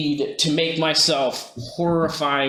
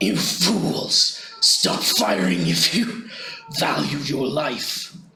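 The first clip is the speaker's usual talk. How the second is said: put-on rough, gravelly, raspy old-man voice. Playing the professor, speaking to these guys in a raspy voice. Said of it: "in a bit of a raspy voice covering the press, professor's normal old man voice".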